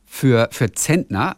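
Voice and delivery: very slow "Zentner" said with a sharp S, "Sentner"; Berlin pronunciation. Shown as a demonstration. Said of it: "also das wie in City". (sehr langsam "Zentner" mit scharfem S)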